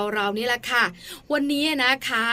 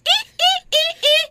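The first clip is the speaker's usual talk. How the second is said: high cackling witch laugh; a mother demoing a witch's cackle for storytime; 6 dB louder than usual. Shown as a demonstration. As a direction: cackle like a fairy-tale witch. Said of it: "บางทีต้องเป็นแม่มด".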